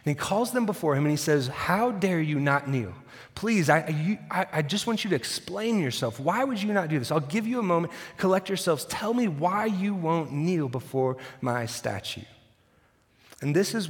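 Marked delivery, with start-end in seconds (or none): 1.5-12.2 furious king. Acted. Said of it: "Nebuchadnezzar is furious".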